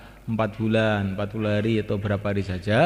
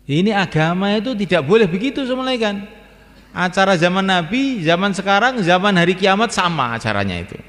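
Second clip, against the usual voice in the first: higher, louder sermon delivery; full-force preaching; 8 semitones higher, 5 dB louder than usual. Real, not acted. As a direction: preach it out to the hall.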